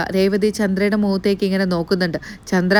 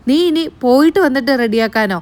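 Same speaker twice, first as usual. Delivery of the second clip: incredulous echo; 4 semitones higher than usual. Retold or imitated. Grandmother echoing the granddaughter's excuse, incredulous. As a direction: throw her words back in disbelief.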